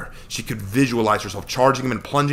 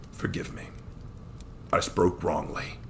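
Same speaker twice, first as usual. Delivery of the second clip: a man quietly ashamed; whispered; 2 semitones lower, 6 dB quieter than usual. Acted. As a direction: hush it in apology. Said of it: "he whispered".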